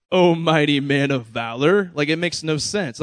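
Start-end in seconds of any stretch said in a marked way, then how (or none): 0.1-1.9 mildly sarcastic. Retold or imitated. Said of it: "It almost sounds kinda sarcastic".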